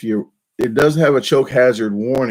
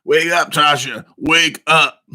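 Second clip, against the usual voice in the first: creepy wake-up voice; 4 semitones higher, slower than usual. Pretend. Vlogger imagining waking his wife, creepy voice. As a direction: croon it to wake her, eerie. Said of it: "if I wake up Tasha with that voice".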